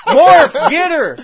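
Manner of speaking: alarm shout. Retold or imitated. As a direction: yell like calling down the hall. Mock calling out to Morph.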